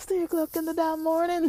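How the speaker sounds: mock shrill, high-pitched scolding yell. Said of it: "kinda yelled at them".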